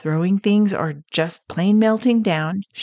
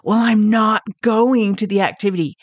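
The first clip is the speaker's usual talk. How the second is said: a boy's defiant yell, imitated, a bit higher and louder; mock yell; 4 semitones higher, 3 dB louder than usual. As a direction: defiantly call back, a hammed-up kid's protest. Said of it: "He yelled".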